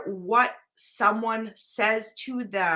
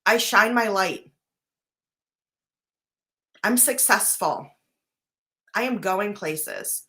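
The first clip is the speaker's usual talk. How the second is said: upbeat affirmations; 4 dB louder than usual. Shown as a demonstration. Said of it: "Be like".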